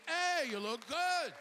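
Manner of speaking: high, drawn-out amazed greeting; surprised compliment. Retold or imitated. People greet the aging comic, surprised high-pitched compliment. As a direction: gush it slowly, high in the voice. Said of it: "they say it with a kind of surprise".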